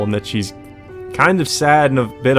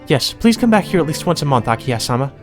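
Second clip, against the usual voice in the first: lightly voiced maid, pitched up; polite maid; 3 semitones higher than usual. Reading maid's request in game.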